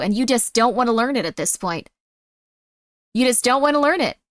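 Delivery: lightly acted exasperated mother; nagging mom pressing for an answer; angry mom. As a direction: scold a child with mounting frustration. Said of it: "I like being Angry Mom".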